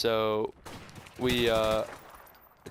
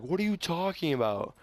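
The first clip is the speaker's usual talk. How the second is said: defensive husband; 6 semitones higher than usual. Retold or imitated. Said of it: "he's like".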